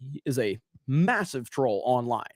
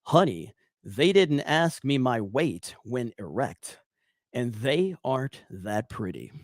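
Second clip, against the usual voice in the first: Trump impression; 3 semitones lower than usual.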